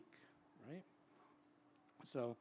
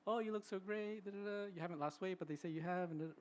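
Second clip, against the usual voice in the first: gushing, much higher and bright-eyed; mock gushing compliment; 7 semitones higher than usual. People faking cheer to someone grieving, in a mock gushing voice. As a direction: imitate a sugary friend fawning. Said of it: "that's what they wanna hear".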